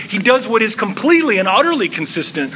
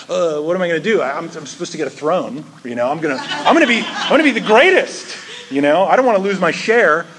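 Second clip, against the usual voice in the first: flustered Peter; faster than usual. Acted. Peter worries about losing his throne and share, comically flustered.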